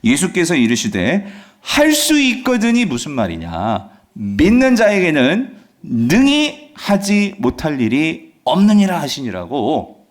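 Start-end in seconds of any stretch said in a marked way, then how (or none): 1.6-9.0 slow, firm scripture reading; lightly acted stern answer, drawn out word by word; firm rebuke. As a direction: declare it slowly and resolutely. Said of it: "주님께서 뭐라고 단호하게 말씀하시냐면".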